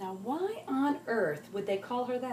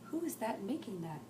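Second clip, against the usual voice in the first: demanding; 2 semitones higher than usual. Acted. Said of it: "demanded Lucy".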